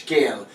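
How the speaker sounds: "scale," pronounced shkale; SH at the start. Shown as a demonstration. Teacher joins sounds for learners, shkale with SH. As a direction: say "scale," opening on SH, not S. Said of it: "it's an S H".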